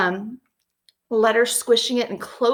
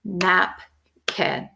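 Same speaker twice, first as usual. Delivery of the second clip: clapping syllables; 2 semitones lower than usual. Shown as a demonstration. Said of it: "I'm gonna clap it out".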